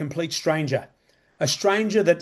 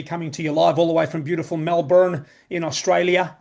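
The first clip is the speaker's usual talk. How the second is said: mock American announcer accent on Melbourne; put-on American accent. Welcoming the audience in a put-on American accent. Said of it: "I don't know why I put on that accent".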